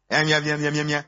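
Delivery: monotone run of "em" sounds; mock mumbled answer. Preacher mimicking the congregation's answer, monotone mumbling.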